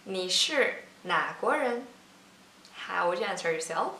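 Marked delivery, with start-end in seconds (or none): 0.1-1.9 slow model question. Shown as a demonstration. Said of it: "So now let's try".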